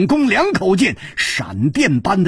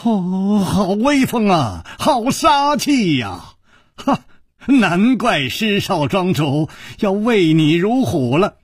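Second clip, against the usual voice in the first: mock sigh; 3 semitones higher than usual. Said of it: "叹了一口气说".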